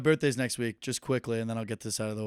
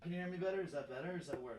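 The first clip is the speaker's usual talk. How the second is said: thin distant phone audio; quieter, far-off mic sound; earbud mic; 5 semitones higher, 14 dB quieter, faster than usual. Real, not acted. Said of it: "that's a lot better".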